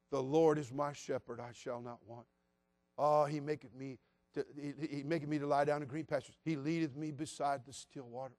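quiet, gentle reading of the psalm; soft scripture reading. Retold or imitated. Reading the psalm for comfort, softly. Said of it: "I'll read Psalm twenty-three".

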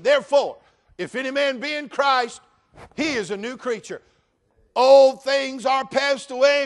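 loud, high, fiery pulpit preaching; a pastor thundering at the church to bury the past; full-force preaching. Acted. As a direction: preach it hard to the congregation.

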